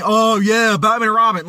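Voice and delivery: sarcastic fake enthusiasm; mock praise. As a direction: pretend to rave about it. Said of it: "And you don't see me saying".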